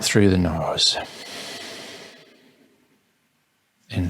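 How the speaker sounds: calm, measured meditation guidance with long pauses; guided meditation. Acted. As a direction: ease them gently into each breath.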